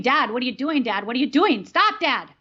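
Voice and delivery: re-enacted panicked plea; retold scream. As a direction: beg him to stop, voice rising at the end. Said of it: "I start screaming".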